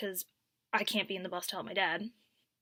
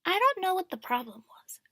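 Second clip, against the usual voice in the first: higher, louder put-on voice of a rude lady; mock the aunt's innocent tone; mimicking the aunt; 9 semitones higher, 5 dB louder than usual. Imitating the drunk aunt on the bus, high and snippy. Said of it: "She turns to me and she goes".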